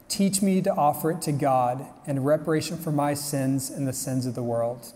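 lightly solemn prayer read to the audience. Acted. Reads the prayer of Saint Joseph.

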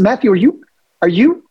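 replaying his shock at a co-star's heavy cologne; incredulous question. Disbelieving actor asking Matthew about his cologne, incredulous.

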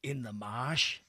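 halting, lightly put-on film-star voice; bad celebrity impression, spaced-out delivery; Jack Nicholson. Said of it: "It's a terrible Jack Nicholson".

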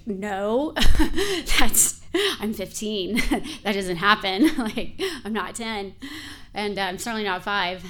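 loud, laughing disbelief; half-laughing outrage at being punished; laughing protest. Retold or imitated. Teen protesting whooping, laughing.

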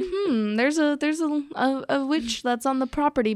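hint of a mock-innocent tourist; musing visitor. Acts out a clueless ghost tour visitor.

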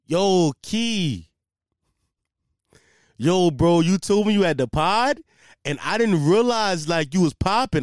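hammed-up dopey coworker impression; mock Canadian idiot coworker. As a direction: play the eager dim coworker. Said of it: "I give him this Canadian accent".

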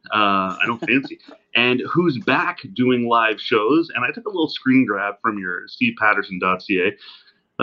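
distant laptop mic sound; like it's recorded from the next room; from another room. Real, not acted. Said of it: "me sounding like I'm talking from the other room".

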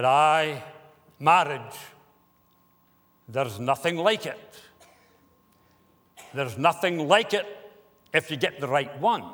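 a light Scottish accent, imitating an old Scottish gentleman; lightly put-on Scottish brogue, fond and wry; a hint of a Scottish burr, chuckling at the end. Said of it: "in his Scottish accent".

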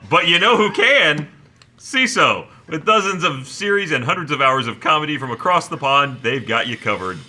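upbeat sponsor read; punchy podcast promo delivery. Acted. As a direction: sell it like a podcast ad. Reads the sponsor ad copy.

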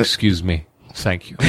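a hint of a hammy stage actor; theatrical voice. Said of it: "his catchphrases that I created were".

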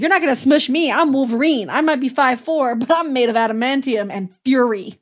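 lightly hammed-up tough-guy retort; Wolverine quote. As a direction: punch it out as a cocky comeback. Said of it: "And Wolverine's like".

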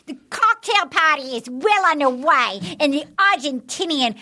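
attempted New Zealand accent. Shown as a demonstration. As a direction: copy a Kiwi announcer carefully. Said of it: "this is New Zealand. Ready?".

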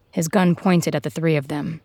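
ordinary delivery, nothing marked

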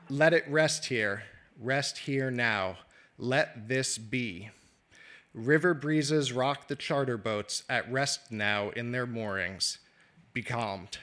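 slow, soothing and fading; calming close. Acted. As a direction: lay it gently to rest.

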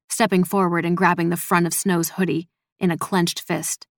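ordinary delivery

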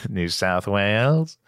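mock Australian accent. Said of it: "the Australian accent".

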